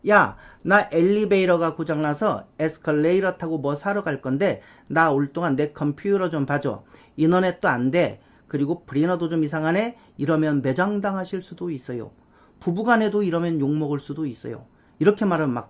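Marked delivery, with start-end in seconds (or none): 0.1-10.0 flapped R for T in "엘리베이터", "에스컬레이터", "컴퓨터"; 영어식 발음 섞기. Acted. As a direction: Korean chat with showy American-style "엘리베이터", "컴퓨터", T as R. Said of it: "한국 사람끼리는 조심해야". ("엘리베이터", "컴퓨터"의 "터"를 "러"로 굴려서)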